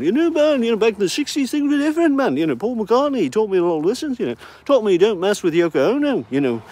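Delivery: lightly voiced laid-back hippie, man; sixties hippie. Vlogger playing an old sixties hippie, lightly voiced. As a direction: loose stoner cadence, mild put-on. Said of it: "who else do we need to impersonate".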